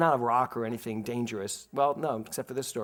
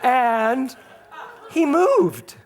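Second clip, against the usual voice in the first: words broken up by real laughter; can't get through it for laughing; 9 semitones higher, 5 dB louder, slower than usual. Real, not acted. Telling the congregation, laughing helplessly. Laughing while recalling throwing it.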